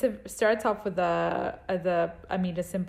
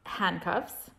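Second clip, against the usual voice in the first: one word at a time, with pauses; clipped single words, each one alone; staccato; slower than usual. Shown as a demonstration. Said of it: "build the story one word at the time".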